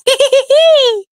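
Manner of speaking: shrill burst of mocking laughter; high taunting laugh. Real, not acted. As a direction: cackle at her.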